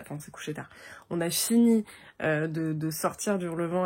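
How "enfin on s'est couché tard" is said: breathy whisper aside. Real, not acted. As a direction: drop to a whisper. Aside about late night. (chuchoté)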